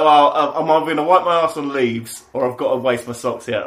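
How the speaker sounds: loud, high, laughing through the words; giggly recounted dilemma; laughing retelling. Retold or imitated. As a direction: crack up while quoting yourself. Retold dilemma, laughing loudly.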